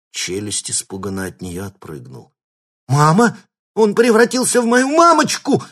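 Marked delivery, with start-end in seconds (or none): 2.9-5.6 much higher, louder panicked squeal. A narrator's reading. Thug squealing at seeing his mother. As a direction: shriek like a scared kid. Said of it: "взвизгнул он".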